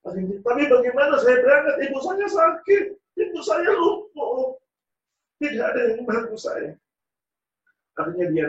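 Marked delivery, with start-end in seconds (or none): 0.4-6.8 high, loud plea breaking into a cry; anguished pleading. Acted. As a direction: cry out helplessly about his sick mother. Son despairs, mother paralysed. (rintihan putus asa dengan suara tinggi dan keras)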